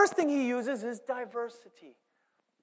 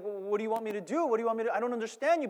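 confused henchman; 2 semitones higher, much faster than usual. Retold or imitated.

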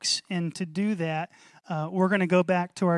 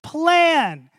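knowing observer; 5 semitones higher, 4 dB louder, slower than usual. Pretend. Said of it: "the person following you around would say".

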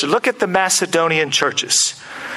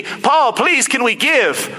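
pleading; 3 semitones higher, slower than usual. Acted. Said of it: "Macedonia was pleading with me".

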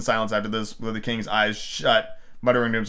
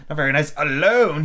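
eager interruption; 4 semitones higher, 5 dB louder than usual. A narrator's reading. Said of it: "he interrupted quite eagerly".

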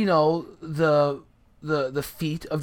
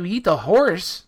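high, louder disbelieving question; incredulous question; 5 semitones higher, 6 dB louder, slower than usual. Retold or imitated. Telling friends he was offered a burning horse, incredulous. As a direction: ask it like it's insane. Retold own incredulous reply.

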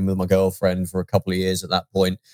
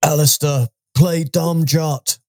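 higher, drawn-out Norsican greeting; Norsican impression; 5 semitones higher, 3 dB louder, much slower than usual. Co-host greets Alistair as a Dom Jot challenger, Norsican impression. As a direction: impersonate an alien, stretching out the words. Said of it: "Norsican impression".

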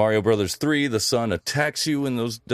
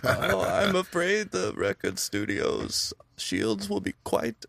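Emperor voice; 8 semitones higher than usual. Pretend. Emperor quote impression.

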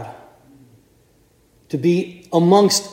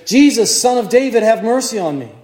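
higher, louder desperate plea over a crowd; calling out loud; 5 semitones higher than usual. Acted. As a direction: cry out to be heard above the throng. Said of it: "And he does it loud".

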